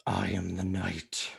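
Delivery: very low, quiet gravelly Batman. Acted. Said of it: "uh, Batman".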